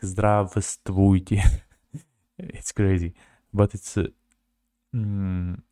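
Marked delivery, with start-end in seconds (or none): 0.0-1.4 Здравствуйте read slowly, every letter sounded; each syllable of Здравствуйте spelled out clearly. Shown as a demonstration. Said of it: "you can read it like".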